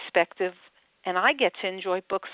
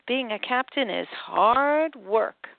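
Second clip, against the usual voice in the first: weary sigh; 3 semitones higher, slower than usual. Acted. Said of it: "Captain No Beard sighed".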